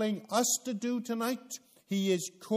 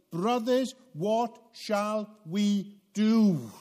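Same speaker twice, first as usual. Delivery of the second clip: slow, loud anguished plea; cut to the heart; 3 semitones higher, 6 dB louder, slower than usual. Acted. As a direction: cry out to Peter, stricken and pleading. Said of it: "cut to the heart and said".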